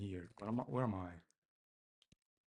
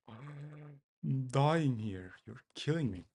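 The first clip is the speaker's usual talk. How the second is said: 1 exasperated groan; 3 semitones higher, 6 dB louder, slower than usual. Real, not acted. Exasperated at failing deploy.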